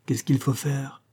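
tight, subdued question; through clenched teeth. Acted. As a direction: ask it reluctantly through gritted teeth. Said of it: "demanda-t-il entre ses dents serrées". (les dents serrées)

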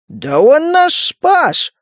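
high, slow, outraged protest; indignant objection. A narrator's reading. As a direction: jump to the stranger's defence. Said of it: "возразил жаба".

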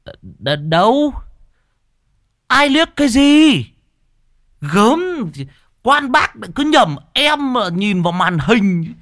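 high, squeaky, fast-talking flustered man; flustered denial. Acted. Lame Thọt squealing denials at the ghost accusing him. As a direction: stammer then protest innocence in a high voice.

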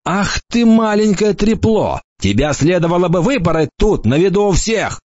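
high, strained angry outburst; furious. A narrator's reading. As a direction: spit it out in rage at a child. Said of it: "яростно сплюнул".

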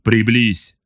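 a slightly eager commander's order; touch of excitement. A narrator's reading. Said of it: "В голосе Эрвина послышались нотки возбуждения".

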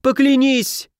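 a high squealing demand; shrieking. Acted. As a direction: squeal it out in panic.

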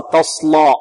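"تصلى" with a darkened "la"; "تصلى", ending on a backed, heavy a; heavy lam. Shown as a demonstration. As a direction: let the sad thicken the l of "تصلى". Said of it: "لا نغلظ اللام تبعا للصاد".

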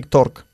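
"talk" said almost as "tork"; exaggerated vowel. Shown as a demonstration. Teacher gives the student a hint, "talk" sounded like "tork". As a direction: round the vowel of "talk" into a long or. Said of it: "Como casi talk".

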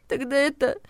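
high, hesitant sniffle; soften, give in; sniffled. A narrator's reading. Regina relents to the heroine, sniffling. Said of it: "всхлипнула Регина".

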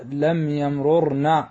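يمررن slowly as yam-RUR-na, both r's separate; unmerged double r. Shown as a demonstration. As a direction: break up يمررن syllable by syllable. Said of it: "يجب فيه فك الإدغام". (يمررن بتمهل وفك الإدغام)

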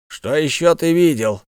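insistent, pressing question; demanding. A narrator's reading. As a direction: press him for an answer. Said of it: "требовательно спросил Аркус Пилиан".

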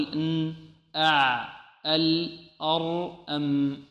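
one by one, each consonant left to resonate; medium-sound letters. Shown as a demonstration. Teacher demonstrating the medium letters, briefly held. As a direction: sustain each final consonant in "ن، أع، ال، أر، أم" briefly, softly. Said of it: "هذه حروف متوسطة".

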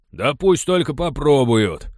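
loud, slow, defiant; booming reply. Acted. Sturdy men answer Jamaica, loud and slow defiance. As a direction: boom it out, daring them. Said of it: "зычно ответили ему пара крепких мужчин".

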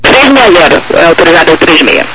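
tinny distant radio voice; radio transmission. Real, not acted. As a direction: heard over the aircraft radio.

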